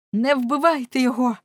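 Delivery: high, loud urgent cry; impassioned woman's shout. A narrator's reading. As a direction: cry out to halt the killing. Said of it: "кричала Торія".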